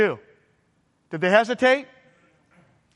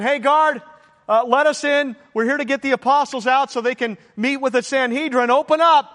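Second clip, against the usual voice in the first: raised, brisk officer's voice; officer calling out; 3 semitones higher than usual. Retold or imitated. Officers arriving at the prison gate, calling out.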